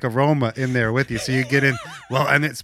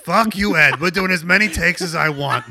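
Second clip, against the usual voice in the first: Pacino impression. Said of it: "somewhere between a Pacino".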